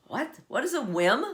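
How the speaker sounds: mock bewilderment; puzzled questioning. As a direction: play someone stumped by a saying. Voices puzzlement at the expression.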